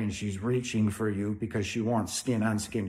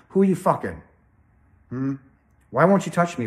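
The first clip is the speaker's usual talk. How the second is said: louder, higher, jealous demand; accusing wife; 4 semitones higher, 6 dB louder, faster than usual. Retold or imitated. Wife accusing her partner of cheating, angry. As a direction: hurl the accusation at him.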